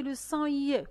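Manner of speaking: "I" said as the glide "yeh"; ié sound. Shown as a demonstration. Teacher shows the letter's other sound, "I" as ié. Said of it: "il fait un autre son".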